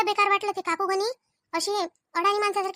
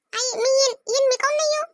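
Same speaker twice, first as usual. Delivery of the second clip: higher-pitched insistent protest; protesting child; 5 semitones higher than usual. Acted. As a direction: protest to your mother in a raised pitch. Child protests being kept away.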